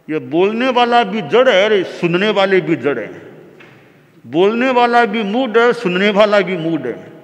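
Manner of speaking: acted disdain, punched openings that drop away; scornful dismissal. Storyteller voices the king judging speaker and listeners, scornful. King's scornful thought about preacher, audience.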